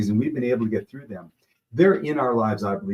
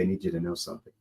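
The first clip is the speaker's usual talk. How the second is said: lower, softer coach voice, dropping away; quiet retold advice; 3 semitones lower, 7 dB quieter than usual. Coach confiding in his player after practice, hushed retelling. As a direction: imitate a coach taking a player aside, voice lowered.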